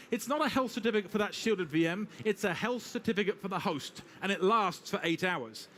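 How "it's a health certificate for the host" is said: usual speaking voice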